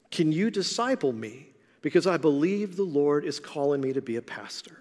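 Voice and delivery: whispered, humble plea; hushed request. Retold or imitated. Irving whispering his request to the church leader, humble. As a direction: ask it under your breath, almost afraid.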